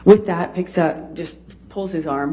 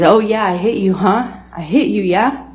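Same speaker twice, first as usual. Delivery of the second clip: retold taunt, pitched up with questioning tags; 4 semitones higher than usual. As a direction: imitate a mocking jeer, higher than usual. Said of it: "he does that taunting thing".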